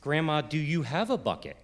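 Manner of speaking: peak mid-sentence on "have", falling away after; sing-song question. Retold or imitated. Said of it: "it was so sing-songy".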